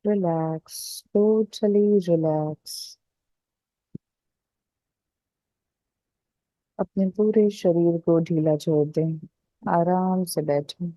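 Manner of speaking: calm meditation guide with long pauses; guided relaxation. Acted. Guide telling listeners to loosen the body, guided relaxation. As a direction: ease listeners into letting go, unhurried.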